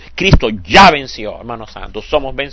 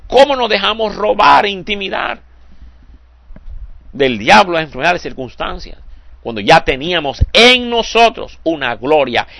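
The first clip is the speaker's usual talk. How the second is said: heavenly regret; 6 semitones higher than usual. Pretend. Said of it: "llegaremos al cielo y dice".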